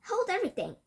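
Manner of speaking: high shrieking cry. A narrator's reading. Witch halting the room, high shrieking. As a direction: shriek it like a trumpet. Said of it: "Her shrieking voice echoed".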